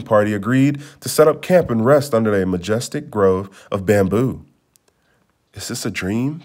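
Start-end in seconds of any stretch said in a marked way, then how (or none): 5.5-6.4 soft, hushed wondering; inner thought. Acted. Prince wonders to himself in the bamboo grove, hushed. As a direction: ask it quietly to yourself. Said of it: "thought the prince".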